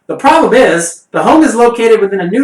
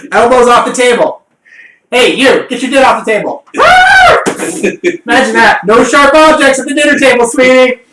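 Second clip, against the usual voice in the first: crisp disapproving governess; 5 semitones higher, 4 dB louder than usual. Pretend. Mock parent scolding at nudist dinner.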